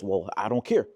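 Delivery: loud mock dismissal; closed off. Man with arms closed to his woman, closed off. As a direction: imitate a defensive, arms-crossed retort. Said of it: "you're probably more closed off".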